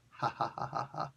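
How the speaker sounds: soft, airy fake laugh; quiet put-on "ha ha"; imitated laughter. Shown as a demonstration. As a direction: demonstrate a laugh in even beats. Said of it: "it's like laughter in Spanish".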